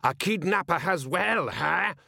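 high-pitched cry, not full volume; mild cry. A narrator's reading. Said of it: "mutual cries of".

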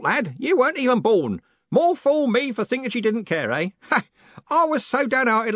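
put-on loud, high, hearty old man; blustering old merchant who never lowers his voice; old merchant booming at the young postman. A narrator's reading.

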